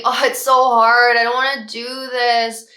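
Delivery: mock whine of a child over homework, loud start; whiny child. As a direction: act out a kid whining about math, lightly. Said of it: "they're whining, they're complaining".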